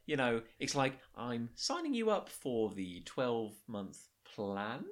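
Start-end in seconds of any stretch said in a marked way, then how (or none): 1.2-4.8 slow, each phrase lifting like a question; question-like upward inflection. Shown as a demonstration. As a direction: sell it slowly as if asking. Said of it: "it's like he, she's asking a question".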